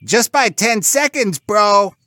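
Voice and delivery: high, loud pig comeback; squealy sibling retort. A narrator's reading. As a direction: fire back like a squeaky pig bro. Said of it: "Bob Red retorted".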